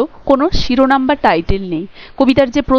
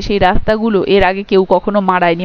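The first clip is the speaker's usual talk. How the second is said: ordinary delivery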